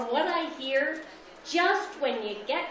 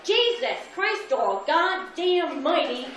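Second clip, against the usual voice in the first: higher, mock furious mother cursing; mad mom yelling; 3 semitones higher than usual. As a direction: imitate a really mad mother. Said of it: "when she was really mad".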